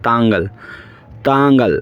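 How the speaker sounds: তাঙ্গাল repeated slowly and clearly; teacher repeating তাঙ্গাল; Malayalam word demo. Shown as a demonstration. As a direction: model তাঙ্গাল for repetition. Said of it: "আপনিকে Malayalam ভাষায় বলা হয় তাঙ্গাল".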